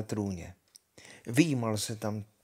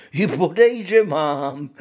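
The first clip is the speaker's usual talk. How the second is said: rozřehtaně; 4 semitones higher, 8 dB louder than usual. Acted. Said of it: "rozřechtal se Honza".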